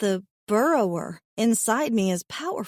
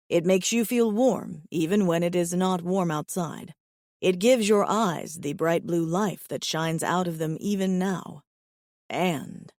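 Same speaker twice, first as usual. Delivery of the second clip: low, even alien voice; steady, low and earnest; calm alien suitor; 4 semitones lower than usual. Acted. Alien explains.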